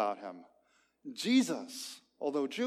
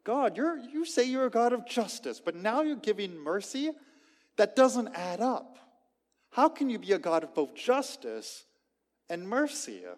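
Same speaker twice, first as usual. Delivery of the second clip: indignant; 5 semitones higher than usual. Retold or imitated. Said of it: "he's thinking".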